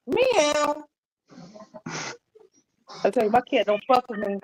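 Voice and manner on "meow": cat meow. Pretend. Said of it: "She get mad".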